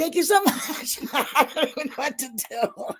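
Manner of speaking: high, giddy thanks with a laugh; overwhelmed thanks. Real, not acted. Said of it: "I'm like a little kid".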